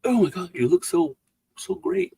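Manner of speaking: lightly mocked starstruck praise; retold gushing. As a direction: gush in mock amazement. Retold admirers' amazed reaction.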